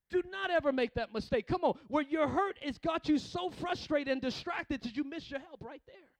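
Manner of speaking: loud, driving sermon delivery; full-force preaching. Real, not acted. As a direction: build repeated phrases like a fired-up preacher.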